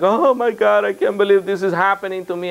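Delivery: lightly whining imitation of a tearful man; a touch of mock wailing on the opening; mock crying. Client cracking down in the meeting, mock tearful. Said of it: "he starts crying like a baby".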